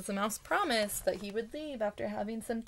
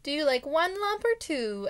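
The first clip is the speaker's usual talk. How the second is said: higher, polite offer of tea; most politely; 6 semitones higher, 4 dB louder than usual. A narrator's reading. Bear offering the mouse tea, most politely. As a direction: ask it very politely, a bit louder. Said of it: "asked Bear most politely".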